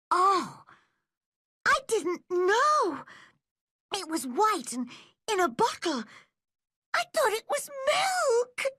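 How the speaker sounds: put-on a mortified child crying out her mistake; sobbing girl. Anne sobbing to Marilla about the medicine cake, tearful. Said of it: "sobbed Anne".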